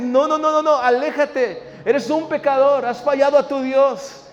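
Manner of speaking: loud, high, insistent accuser; accusing enemy. Acted. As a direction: drive them away with loud accusations. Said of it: "el enemigo te va a decir".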